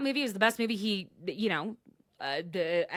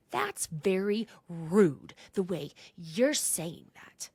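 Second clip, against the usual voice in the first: whisper; slower than usual. Retold or imitated. Quoting Heather.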